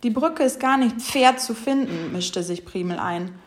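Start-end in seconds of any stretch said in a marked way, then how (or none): 0.0-2.1 "fair" for schwer, Sch turned into F; speech slip, "fair" starting on F. A narrator's reading. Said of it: "Oh weh, so viele Fs".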